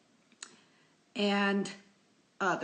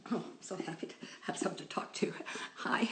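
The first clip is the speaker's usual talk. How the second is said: whisper; faster than usual. Real, not acted. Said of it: "talking to a pet".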